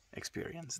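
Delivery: breathy whisper. Acted. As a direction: whisper it gently. Meditative whisper of phrase.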